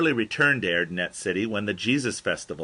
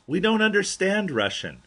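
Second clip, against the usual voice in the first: much higher, emphatic protest; Lance voiced; 11 semitones higher, 4 dB louder than usual. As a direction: insist you don't speak Russian, pitched way up. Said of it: "Lance says".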